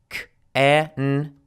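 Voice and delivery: CAN'T broken into "k, e, n", then cut off; k, e, n in pieces, ending abruptly; glottal stop. Shown as a demonstration. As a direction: sound out CAN'T slowly and stop in the throat without a T. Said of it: "and then we stop".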